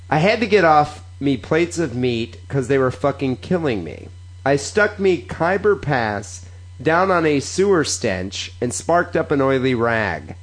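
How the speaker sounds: careful read-aloud, phrase by phrase. Acted. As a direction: read the slang out deliberately. Reads Cockney sentence aloud.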